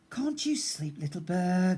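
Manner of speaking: high whispered weary question; groaning whisper. Acted. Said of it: "groaned Big Bear".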